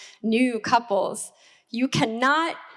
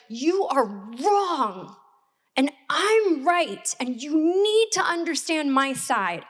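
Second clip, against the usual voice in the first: replaying her own mad words to her husband; retold angry insistence; 4 semitones higher than usual. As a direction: lean on each word, stubborn and heated. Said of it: "because I was so mad, so mad".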